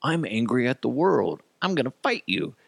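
high-pitched mimicked teen threat; lightly hammed-up goth rage; mock angry goth. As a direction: declare it like a petulant goth kid. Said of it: "One goth guy was just like".

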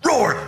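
high-pitched hammy roar word; mock roar. Mimicking a wrestler's scripted roar, high mock roar. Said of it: "And then you roared".

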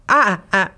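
"Ah" repeated in short stuttered bursts; imitated stutter. Retelling how she echoed her date, "Ah" stuttered back. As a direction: copy a stutter on "Ah" without meaning to. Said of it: "Fait que t'as juste bégayé".

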